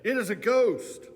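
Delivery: high, loud frightened shout; terrified cry. Acted. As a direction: cry out in terror at a ghost. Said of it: "they were terrified and said".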